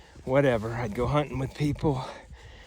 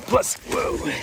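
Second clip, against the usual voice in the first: startled whoa; 5 dB louder than usual. Real, not acted. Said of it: "just a little slip".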